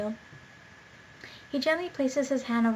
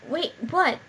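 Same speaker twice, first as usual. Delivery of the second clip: surprised; 5 semitones higher, 4 dB louder than usual. Real, not acted. Confused reading the script.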